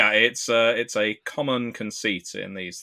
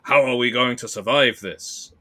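louder, higher attempt at a Belgian accent; 4 semitones higher, 5 dB louder than usual. Pilot asking his co-pilot about survival, mock Belgian accent. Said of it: "that was my Belgian accent".

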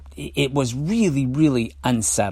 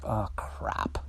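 dreading bedtime; 12 dB quieter than usual. Retold or imitated. Recalling dread when nighttime came, muttered resignation. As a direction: sink into a hushed, resigned groan. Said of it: "when nighttime came, I'd be like".

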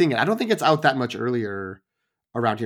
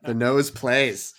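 slow emphatic repeat; much slower than usual. Shown as a demonstration. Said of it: "Chris Hemsworth".

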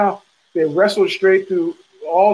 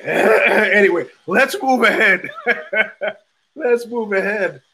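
laughing it off; 4 semitones higher, slower than usual. Real, not acted. Laughing off his emotion.

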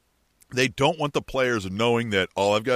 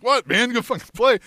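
gruff coach; 8 semitones higher, 4 dB louder than usual. Retold or imitated. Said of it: "and the coach is like".

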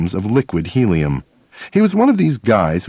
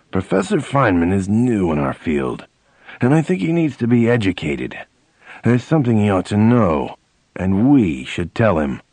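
dour voice. Retold or imitated. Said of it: "said in a dour voice".

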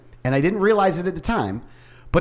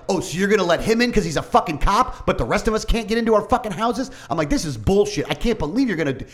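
retold angry rant; 6 semitones higher than usual.

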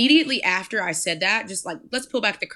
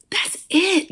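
whispered aside; 9 semitones higher than usual. Real, not acted. Whispered punchline to listeners.

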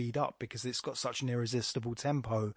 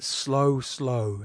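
slow, drawn-out reading; each word given its own weight; 4 dB louder than usual. Shown as a demonstration. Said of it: "You have to slow down".

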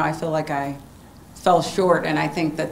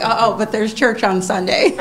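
laughing self-quote; 4 semitones higher, 5 dB louder than usual. Retold or imitated. Retold own thought, laughing.

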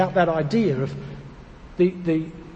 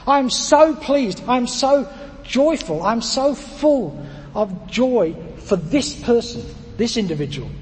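over the top joy; 2 semitones higher, slower than usual. Shown as a demonstration. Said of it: "I'm so over the top about this".

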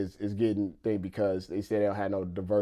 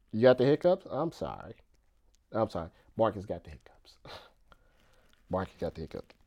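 soft sympathy; 2 semitones lower, 5 dB quieter than usual. Real, not acted. Owner comforts his hiccuping puppy, softly sympathetic. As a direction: soothe a small pet, dropping nearly to a whisper.

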